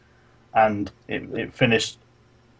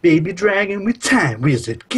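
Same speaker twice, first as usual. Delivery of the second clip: higher, louder hammed-up combo call; mock anime attack call; 6 semitones higher, 4 dB louder than usual. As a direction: shout the combo like a cartoon hero. Calling a card combo.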